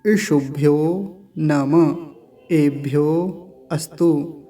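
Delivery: slow, syllable-by-syllable Sanskrit chanting; measured chant with pauses between words; mantra recitation. Shown as a demonstration. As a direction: recite it as a teacher models a mantra, long vowels held. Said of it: "पूरे मंत्र का ऊपर से उच्चारण देख लेते हैं".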